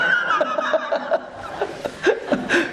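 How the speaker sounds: long high-pitched laugh; laughter. Real, not acted. Pastor laughing at own remark about church hardship, high laughter. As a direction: burst out laughing and keep it going.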